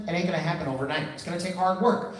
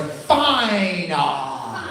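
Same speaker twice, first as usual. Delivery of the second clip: whiny preteen giving in. Retold or imitated. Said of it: "adding an A to the end".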